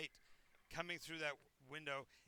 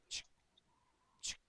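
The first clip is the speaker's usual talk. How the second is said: soft chick sound. Acted. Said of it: "you can hear a little chick".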